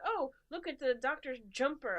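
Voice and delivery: high, loud, slow imitation of an excited fan; hammed-up admiring exclamation; mock enthusiasm. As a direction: exclaim it with exaggerated delight. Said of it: "So when you go like".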